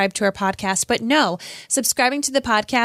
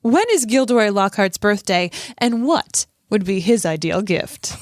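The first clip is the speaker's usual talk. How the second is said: lightly voiced, self-adoring quizmaster; a hint of sing-song newsreader; Gilderoy Lockhart. Host reads Lockhart's last question, lightly voiced smug character. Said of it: "love your Gilderoy Lockhart voice".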